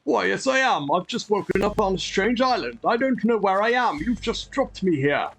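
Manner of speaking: lightly voiced, polite castaway; mildly theatrical role-play reply; player's castaway character. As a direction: answer in character, a little put-on. Answers game character in role.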